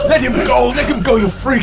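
shouting. Acted. Victor screams at captor.

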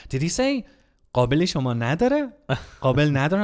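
high, urgent retelling of dad; imitating a startled father asking; dad's alarmed question. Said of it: "and was like".

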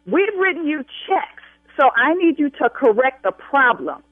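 indignant, pressing demand with hard-hit words. Real, not acted. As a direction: raise your voice and demand a fix. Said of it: "I will continue to raise my voice".

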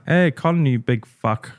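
imitated Australian voice note; Australian accent. Quoting an Instagram follower's message, imitated Australian accent. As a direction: mimic an Australian accent lightly. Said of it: "he's got an Australian accent".

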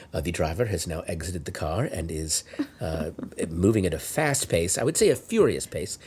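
low, soft golf-announcer commentary; calm internal narration. Retold or imitated. Passenger narrating the driver's chase, calm mock commentary. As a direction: understate the chaos in a hushed, composed voice. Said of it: "trying to keep myself calm".

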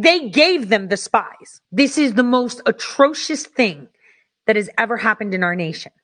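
usual speaking voice

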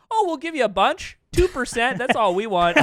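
lightly voiced agreeable Canadian investor; nice Canadian businessman. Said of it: "four Canadian business men instead".

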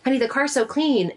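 a touch of husband's pride; husband showing off the clean car; proud husband. Retold or imitated. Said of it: "he said".

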